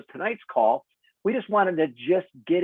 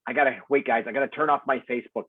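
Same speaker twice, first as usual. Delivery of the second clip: reverb in a big hall; echoey room sound, like a hall; faster than usual. Real, not acted. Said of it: "Sorry for the reverb".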